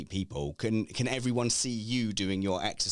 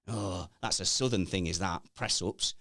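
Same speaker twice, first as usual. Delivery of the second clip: grumbling Northerner impression; scoffing in a Northern English accent; mock Northern English accent; 2 semitones lower than usual. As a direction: put on a dismissive Northern English voice. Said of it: "that's the northern side again".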